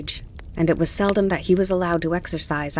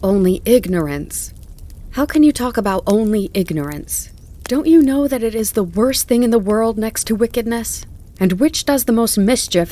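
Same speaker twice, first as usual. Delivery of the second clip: louder, higher indignant tirade; startling outburst; 3 semitones higher, 5 dB louder than usual. A narrator's reading. John lecturing Tom on ignorance, loud indignation. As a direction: pour out outrage at harm done. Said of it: "John's voice almost startled me".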